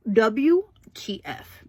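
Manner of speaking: slow, breathy WTF under the breath; disbelieving whisper. Real, not acted. A woman whispers in shock that HP shut down her printer, slow.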